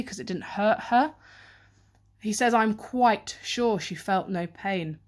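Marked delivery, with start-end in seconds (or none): 2.5-5.0 slow quote. Shown as a demonstration. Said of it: "that choice of sure there".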